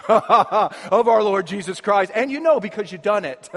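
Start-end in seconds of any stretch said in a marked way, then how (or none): 0.0-2.1 slow, solemn churchy intoning; mock-solemn prayer voice; pompous prayer voice. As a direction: put on a grand monk-like prayer. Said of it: "what in the world comes out of your mouth".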